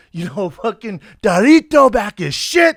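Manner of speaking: acting in character. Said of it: "He's like".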